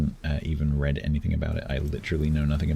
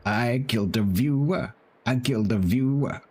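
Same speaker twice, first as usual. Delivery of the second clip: stunned disbelief; 6 semitones higher than usual. Real, not acted. Repeated in shock.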